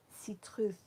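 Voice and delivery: "Citrus" said as see-TROOTH; th at the end. Shown as a demonstration. Practising the corrected colour name, th at the end. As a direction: close "Citrus" with TH in place of S. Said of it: "with a T H at the end".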